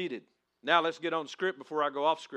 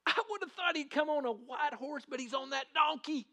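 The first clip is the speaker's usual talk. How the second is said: high-pitched bystander chatting; crowd member; 10 semitones higher than usual. Acted. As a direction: keep the excited onlooker voice going. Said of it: "Let me live the moment".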